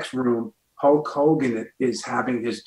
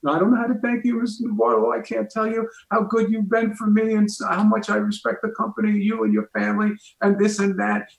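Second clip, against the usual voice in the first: high-pitched, hammed-up weepy gratitude; mock tearful; 9 semitones higher, faster than usual. Award winner thanking his boss, mock tearful. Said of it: "he starts crying".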